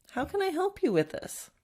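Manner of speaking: gentle, patient question; said nicely. Shown as a demonstration. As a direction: ask kindly, wanting to help. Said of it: "say it nicely".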